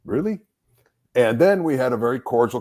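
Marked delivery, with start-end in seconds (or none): 0.0-0.4 incredulous. Retold or imitated. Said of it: "I was just like".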